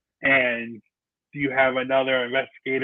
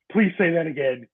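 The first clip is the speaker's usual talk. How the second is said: higher-pitched imitation of an eager plea; retold urgent plea; 4 semitones higher than usual. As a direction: act out begging a voice to repeat itself.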